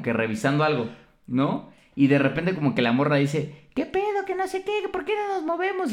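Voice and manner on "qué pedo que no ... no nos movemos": much higher, softer mock woman's voice; girly woman's voice. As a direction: play the girl in the taxi, sweet and high. (voz de mujer fingida, aguda y suave)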